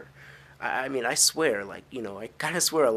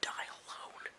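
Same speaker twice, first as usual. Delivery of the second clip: ominous refusal; 4 semitones lower, 7 dB quieter, slower than usual. Pretend. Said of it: "I'm just like".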